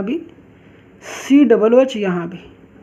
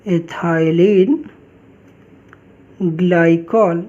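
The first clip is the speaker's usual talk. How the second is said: slow dictation; 5 semitones lower, much slower than usual. Shown as a demonstration. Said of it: "teacher dictates the name word by word".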